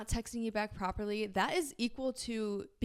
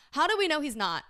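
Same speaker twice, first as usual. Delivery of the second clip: mock suspicion; 6 semitones higher, 8 dB louder than usual. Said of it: "No, I'm just kidding".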